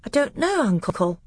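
put-on high, small-boy voice; unsure little boy answering his uncle; Caspian.

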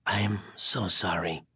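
very low, hushed and slow; whisper of regret. A narrator's reading. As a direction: murmur it slowly, full of regret. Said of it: "his voice a whisper of regret".

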